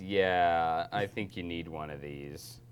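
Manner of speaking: low-key, unhurried bartender. Acted. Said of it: "the bartender looks at you".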